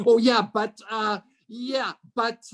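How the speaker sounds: high-pitched butting in, loud at first; mock interrupting agent. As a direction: jump in over someone, then stall on fillers. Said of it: "the agent jumps in and says".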